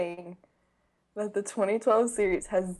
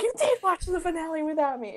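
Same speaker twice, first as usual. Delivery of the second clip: quoting Raph; 9 semitones higher, faster than usual. Retold or imitated. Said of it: "Raph's like".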